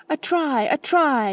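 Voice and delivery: high, loud whoop of a try; excited yell. A narrator's reading. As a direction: shout it across the field. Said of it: "yelled Freddy".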